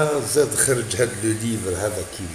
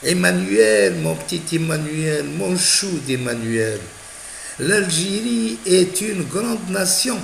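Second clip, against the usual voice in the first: voix de Brigitte, aiguë et lente, câline; imitation de Brigitte; 7 semitones higher than usual. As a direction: imiter Brigitte qui cajole son mari, voix plus haute. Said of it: "Belek راهي قالت له". (voix mielleuse de Brigitte, plus aiguë)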